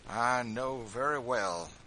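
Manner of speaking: loud, slow bitter retort; bitter acknowledgement; slow, loud bitterness; bitterly. A narrator's reading. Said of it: "said George bitterly".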